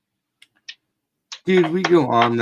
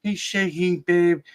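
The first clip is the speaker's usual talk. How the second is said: higher mock-anxious wife voice; imitating his worried wife; 6 semitones higher than usual. Wife urging the husband to stop the ride: higher mock-anxious voice. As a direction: fret like a mom begging them to stop. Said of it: "And she's like".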